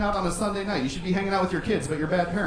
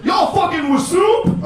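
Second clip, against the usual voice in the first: much higher, louder yell; hammed-up hype; 13 semitones higher, 7 dB louder, slower than usual. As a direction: holler it at the crowd. Mock Panera hype.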